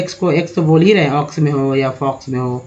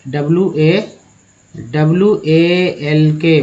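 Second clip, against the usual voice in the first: slow spelling; slower than usual. Shown as a demonstration. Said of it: "एलके में लिखते हैं वॉक".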